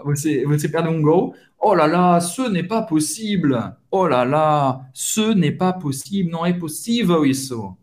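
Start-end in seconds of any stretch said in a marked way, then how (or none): 1.6-6.3 exclaimed disbelief, falling away; frustrated. Shown as a demonstration. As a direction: lament a missed goal. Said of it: "expressar uma frustração com esse". (frustrado com um gol perdido)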